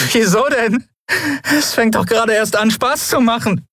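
high, manic taunt; hysterical bravado. A narrator's reading. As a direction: laugh off the torture. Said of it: "Anflug von Hysterie".

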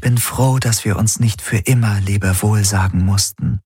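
deutlich höher, gespannt und neugierig; eifrige KI-Stimme. Acted. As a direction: voller Vorfreude auf das Neue. Helix voiced by narrator. (hohe, eifrige Maschinenstimme)

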